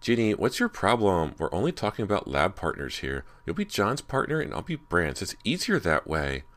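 loud, fed-up pleading; a girl losing patience with her friend; exasperated. Acted. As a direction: spell it out like she's had enough. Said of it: "Meg let out an exasperated sigh".

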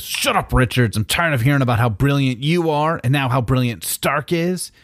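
high, hammy dumb-brute voice; dopey cartoon bellow. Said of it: "And that's when the Hulk says".

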